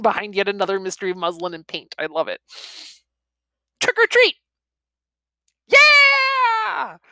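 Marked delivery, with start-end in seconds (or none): 3.8-4.4 put-on high, loud kids calling out; trick-or-treat shout. Kids' Halloween cry. 5.7-7.0 very high, loud whoop; cheering shout. Acted. Group cheers.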